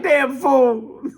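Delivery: high scolding mother voice; high, put-on mama scolding; mother's retort. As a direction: snap it back like an exasperated mother. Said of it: "She's like".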